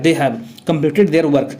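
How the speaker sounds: "They have completed their work" read out slowly, word by word; slow classroom reading; slow dictation. Shown as a demonstration. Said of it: "हैव लगता है".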